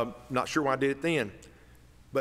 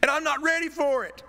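even higher, loud, squeaky "I'm not ready for it"; squeaky Wooster voice; 6 dB louder than usual. Retold or imitated. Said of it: "In my best Wooster voice".

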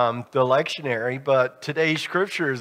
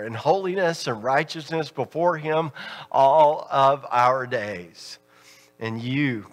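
scripture reading. Acted.

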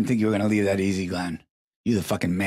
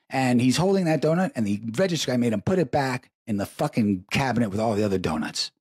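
ordinary talk, nothing marked

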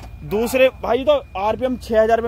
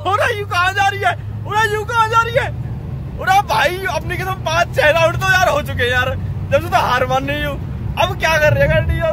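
squeaky high-pitched whine, playful; mock whiny high voice; 10 semitones higher than usual. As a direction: whine in a high put-on voice as if the car is giving up. Mock whining, feminine voice as the losing car. (ऊँची पतली आवाज़ में नकली रोना-धोना)

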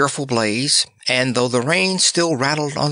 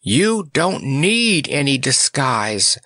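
remorseful wail; 3 semitones higher, slower than usual. Acted. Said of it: "wailed the Cowardly Lion remorsefully".

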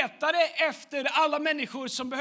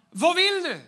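higher, louder, asked straight out; lightly voiced Jesus, a question raised high; Jesus asking; 5 semitones higher, 4 dB louder than usual. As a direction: put the question to him plainly, lifted up. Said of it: "Jesus frågade honom".

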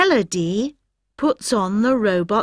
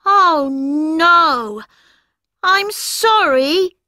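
put-on high, bright child character; a young cartoon kid; Rocket voice; 8 semitones higher, 4 dB louder, slower than usual.

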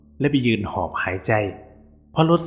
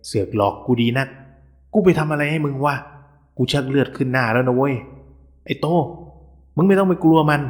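angry outburst; 2 semitones higher than usual. Acted. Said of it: "ผมสุดจะทนเลยโพล่งออกไปว่า".

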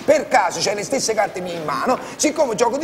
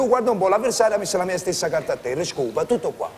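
modest understated win; 2 semitones lower, faster than usual. Shown as a demonstration. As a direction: announce the win humbly, almost sorry. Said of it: "Anche con un poco di tristezza".

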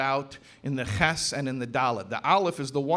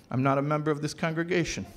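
laughing; faster than usual. Retold or imitated. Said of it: "a guy in the front row who was laughing".

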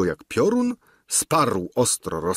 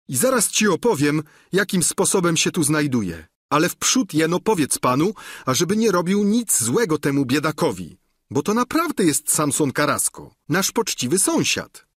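pleading squire; 7 semitones higher than usual. Acted. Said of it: "odpowie koniuszy".

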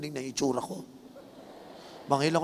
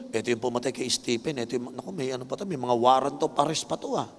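hesitant Ananias; 3 semitones higher than usual. Retold or imitated. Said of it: "Nagdadalawang isip si Ananias".

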